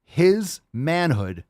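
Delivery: slow, hammed-up heroic praise; mock solemn tribute. Host praising a fan's sacrifice in mock solemnity. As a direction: honor him like a fallen war hero, overdone.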